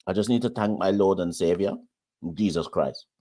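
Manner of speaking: imitated Trinidadian accent; Trini accent attempt. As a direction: mimic a Trinidadian cricketer thanking God. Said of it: "I thought the third attempt at it was good".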